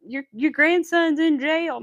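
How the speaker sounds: slow, loud alarming announcement; mock scam caller. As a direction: imitate a caller breaking urgent news. Acting out scam caller to grandparents.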